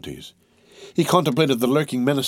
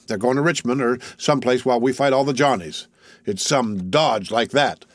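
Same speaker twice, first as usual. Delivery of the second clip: lightly voiced soldier, insistent; argumentative tall soldier; 3 semitones higher than usual. Tall soldier lecturing the tent on camp rumors, lightly voiced and insistent. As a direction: press the point on everyone.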